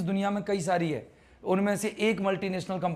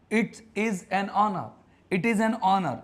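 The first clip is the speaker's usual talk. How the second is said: slow demonstration; 2 semitones higher, much slower than usual. Shown as a demonstration. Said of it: "देखो जरा बताओ".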